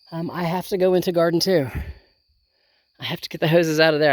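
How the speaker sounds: breathless after a climb up the hill; out of breath. Real, not acted. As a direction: talk while still catching your breath. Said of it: "I know I'm a little out of breath".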